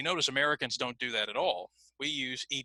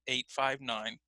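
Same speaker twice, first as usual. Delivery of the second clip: eight five nine grouped, slight rise on five; phone number chunking; phone number rhythm; 3 dB quieter, slower than usual. Shown as a demonstration. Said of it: "I used a specific rhythm".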